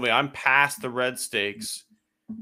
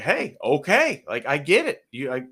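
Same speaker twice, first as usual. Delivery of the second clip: exasperated retort; 3 semitones higher than usual. Retold or imitated. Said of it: "I was like".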